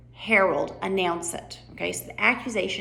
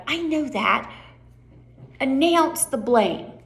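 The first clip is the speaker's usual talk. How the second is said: lightly voiced impatient king; 5 semitones higher, slower than usual. Shown as a demonstration. King answers rabbit impatiently.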